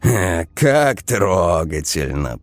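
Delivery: slow, mocking drawl; sarcastic slow drawl. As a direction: stretch the words out in scorn. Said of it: "протянул Вова".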